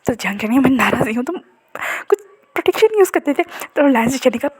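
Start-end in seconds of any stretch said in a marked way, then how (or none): 0.6-3.4 tearful scolding. Acted. Upset husband scolds partner.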